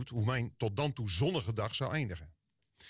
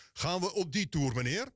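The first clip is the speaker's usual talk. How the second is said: a touch of the angry officer's snap in "Gaan we op die toer"; irritated officer; 6 semitones higher than usual. Retold or imitated. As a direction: bristle at him like an officer losing patience. Ze werd steeds poestiger.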